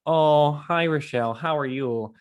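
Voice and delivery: chirpy Minnesota 'oh hi'; Minnesota accent. Retold or imitated. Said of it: "That's my Minnesota accent".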